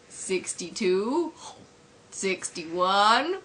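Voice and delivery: slow, drawn-out counting; lightly acted, laboured countdown; Homer counting. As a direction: count down slowly with long gaps. Homer counting cheese slices.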